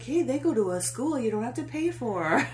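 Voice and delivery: high mocking posh kid; mock snob. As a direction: sneer like a rich kid. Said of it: "he's like".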